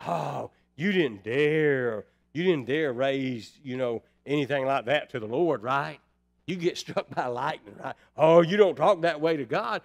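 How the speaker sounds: wag a finger like grandma's generation; a grandmother's generation scolding young folks, mildly mock-stern; old-time scolding. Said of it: "my grandmother's generation".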